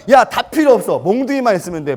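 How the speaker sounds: loud boast. Retold or imitated. Retelling bragging to friends.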